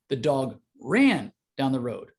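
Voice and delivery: "ran" stressed as the peak word. Shown as a demonstration. Coach demonstrating emphasis, weight on "ran". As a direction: lean on "ran". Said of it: "the emphasis on any given word".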